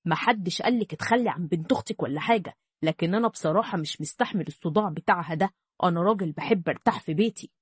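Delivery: a hint of an irritated man fed up with crying; grumpy husband.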